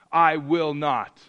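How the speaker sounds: slow, firm mock refusal; defiant son. Son refusing dad's order to clean his room, defiant. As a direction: dig in your heels against dad. Son defying dad, acted.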